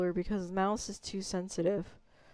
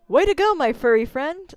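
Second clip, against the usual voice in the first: loud, higher character voice; Assoon; 4 semitones higher, 8 dB louder than usual. Shown as a demonstration. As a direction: cheer on a furry friend, pitched up. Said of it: "this doesn't sound like him".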